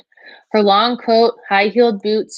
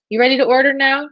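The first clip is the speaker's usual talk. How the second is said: put-on higher-pitched waitress with a Spanish accent; thick Spanish accent; 6 semitones higher than usual. A narrator's reading. Waitress asking a customer to order, Spanish accent. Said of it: "in a thick Spanish accent".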